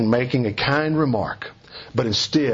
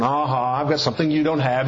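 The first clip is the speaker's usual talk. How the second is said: quick, lightly sing-song "nyah nyah" brag; a hint of a gloating child; childish playground taunt. Shown as a demonstration. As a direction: tease like a kid on the playground, fast. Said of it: "like children on the playground".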